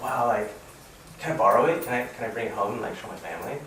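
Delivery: put-on mildly excited kid asking a favor; retold excited friend. Friend begging to borrow the card, excited. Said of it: "Glee was super excited".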